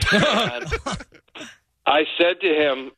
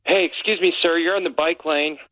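imitating a courteous, higher-pitched request; polite, gentlemanly; 4 semitones higher than usual. Guest imitating nicer New Yorkers addressing bike-lane blockers, politely. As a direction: put on a nicer, mannerly voice for the quote. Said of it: "more gentlemanly or ladylike way saying".

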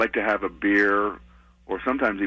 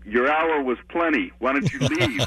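mock heckler shout; 5 semitones higher than usual. Audience member heckling comic after the show, mock shout. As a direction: imitate a heckler without really shouting. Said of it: "sometimes they'll shout out".

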